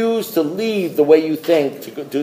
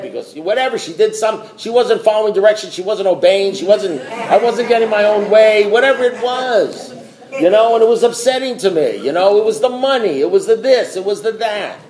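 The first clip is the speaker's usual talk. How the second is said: high, worked-up complaint about a wife; aggrieved, retold venting; toned-down screaming; 5 semitones higher than usual. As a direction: rant in a raised pitch, short of screaming. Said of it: "after I was done screaming".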